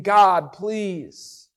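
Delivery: slow, understated imitation of begging; mock pleading. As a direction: imitate someone pleading in prayer. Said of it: "begging and pleading".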